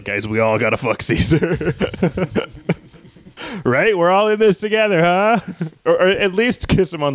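rally the gang like a creep; goofy urging. Acted. Rogue conspirator urging the others, high and cheeky.

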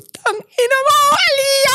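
very high screamed curse, voice cracking. Retold or imitated. Heartbroken guy screams at his ex from the car. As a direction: scream her name out the window. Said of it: "binaba ko yung window".

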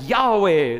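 awed cry. Retold or imitated. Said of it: "And I go like".

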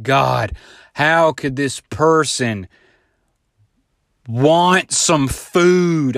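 slow, drawn-out bored grumble; mock annoyed worker. Mocking the eye-rolling Taco Bell worker, slow and bored. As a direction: drag it out like serving you is a burden.

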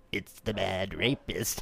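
slow, soft deadpan; deadpan quote. Retold or imitated. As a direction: say it dead flat and low-key. Quoting line flatly.

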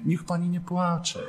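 slow, soft, tender consoling; tender comforting. Retold or imitated. Young priest gently comforting a crying woman, soft and slow. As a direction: soothe her gently. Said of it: "jak ja do niej mówiłem tak czule".

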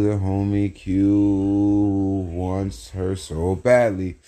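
slow, drawn-out lusty tease; flirty. Real, not acted. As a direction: stretch it out, all swagger.

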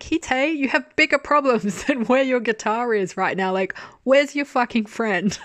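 high, exasperated telling-off; exasperated scolding. Retold or imitated. Viewer telling the character he has bigger problems, exasperated. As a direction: scold him in amused disbelief.

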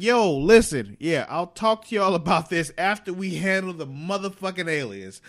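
loud, high-pitched acted insistence; acting out a heated telling-off; emphatic exasperation. Acts out Cisco putting off argument.

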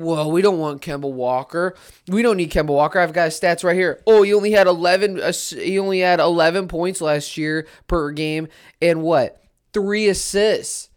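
hammed-up know-it-all fan reading stats; mock Knicks fan. Mimicking Knicks fans dismissing Kemba Walker, mocking. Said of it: "Knicks fans are saying".

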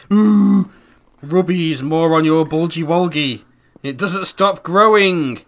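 slow and syrupy; hammed-up cutesy voice; cutesy baby voice. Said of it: "read these out in a voice".

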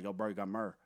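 MYRRH run into one syllable for mirror; lightly imitated South Carolinian "myrrh"; South Carolina accent. Retelling a teammate repeating his request, South Carolina accent. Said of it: "he's from South Carolina".

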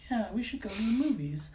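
breathless whispered agreement; whispering. Retold or imitated. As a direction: whisper it, suddenly sold. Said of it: "You're like".

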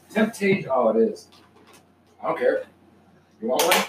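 talking while munching a treat; chewing between words; eating cat treats. Real, not acted. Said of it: "You hear him eating it, folks?".

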